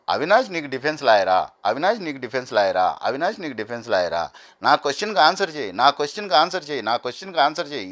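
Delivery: imitating someone doggedly repeating a question; same tune on each repeat, mildly insistent; insistent repetition. Contestant keeps pressing the same question at his opponent, insistent repetition. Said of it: "మళ్ళీ మళ్ళీ repeat చేస్తున్నాడు".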